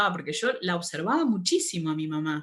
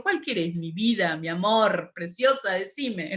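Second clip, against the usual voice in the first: own tender shop voice; slower than usual. Real, not acted. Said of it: "yo soy igual".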